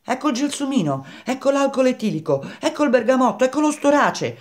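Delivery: very high, excited squawk; croaking. A narrator's reading. Grenouille listing scents to Baldini, croaking high. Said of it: "continuava a gracchiare Grenouille".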